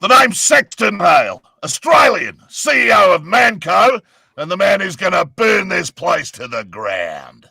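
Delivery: Saxton Hale shouting; booming Australian mercenary shout; ventriloquist. Acted. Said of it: "I did that without moving my lips".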